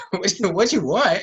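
mock indifferent cashier; imitating rude worker. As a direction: mimic a worker who doesn't care. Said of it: "It's like".

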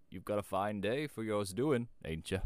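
slow, loud country shepherd; old rustic making slow small talk. A narrator's reading. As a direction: draw it out loudly in a country voice. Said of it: "was an old shepherd".

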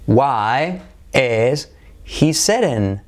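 "Why is he sitting?" spoken slowly, word by word; slow model question. Shown as a demonstration. Teacher modelling the question slowly for students. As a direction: stretch the question out for learners.

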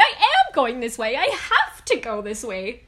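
loud, desperate, slowing to a wail; tearful panic. Retold or imitated. I started crying.

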